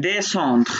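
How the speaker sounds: "descendre" drawn out slowly as de, then sandr; syllable by syllable. Shown as a demonstration. Teacher correcting a learner, "descendre" slowly split into its syllables. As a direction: slowly model "descendre" in two separate syllables. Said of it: "কারণ এটা syllable".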